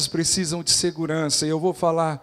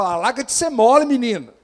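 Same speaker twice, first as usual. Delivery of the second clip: pai zombeteiro; 6 semitones higher, 8 dB louder than usual. Retold or imitated. Pai zombando do filho.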